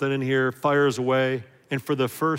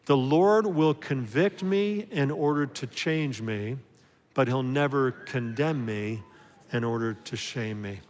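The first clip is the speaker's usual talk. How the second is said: slow, deliberate declaration, every word weighed; slow group recitation. Shown as a demonstration. Pastor leading the church in a slow spoken creed. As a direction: lead the congregation slowly through the line. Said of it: "Let's say it aloud".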